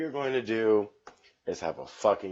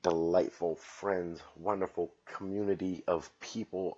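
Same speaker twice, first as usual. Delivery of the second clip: fake-sweet, sarcastic; mock-gushing shoutout to fellow comedians; sarcastic praise. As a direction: gush with obvious insincerity. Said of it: "with only ten gallons of satirical sarcasm".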